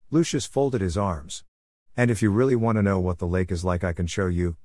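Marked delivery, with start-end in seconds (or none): 2.0-4.6 matter-of-fact. Acted. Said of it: "he said matter of fact".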